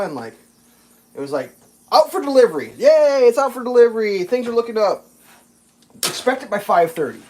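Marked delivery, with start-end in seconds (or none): 1.9-7.2 playful put-on elation; mock excitement. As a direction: celebrate the update in a hammed-up voice. Acted joy at delivery update.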